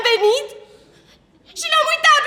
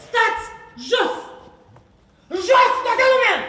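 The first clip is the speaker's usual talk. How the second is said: loud command; 3 dB louder than usual. Acted. Director ordering everyone to sit.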